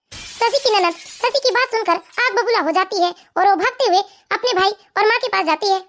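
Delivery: slow, measured narrator; slow storytelling link between scenes; story narration. A narrator's reading. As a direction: narrate the scene change unhurriedly.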